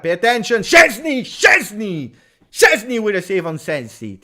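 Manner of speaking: loud, high alarm cry at a shot; excited shout. Real, not acted. Live alarm at shot and save.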